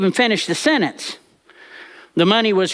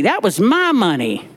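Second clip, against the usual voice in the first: ordinary delivery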